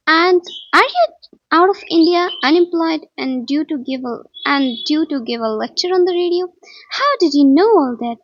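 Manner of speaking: loud, stumbling, restarting words; stammering. Acted. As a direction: trip over the words in shock. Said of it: "I stammered".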